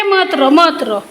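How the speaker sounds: slow, tender comforting; slow soothing hush. Real, not acted. Parent soothing a crying child.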